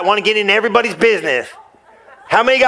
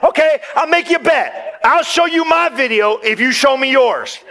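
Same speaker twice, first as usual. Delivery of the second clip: laughing retort; 4 semitones higher than usual. Retold or imitated. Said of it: "I'm like".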